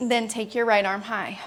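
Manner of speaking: breathless, winded from the pose; out of breath. Real, not acted. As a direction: speak through heavy breathing, winded. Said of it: "I'm out of breath".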